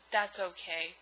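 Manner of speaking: low, soft, dejected reply; understated gloom; depressed. Acted. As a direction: say it glumly, voice dropped. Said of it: "he said, all depressed".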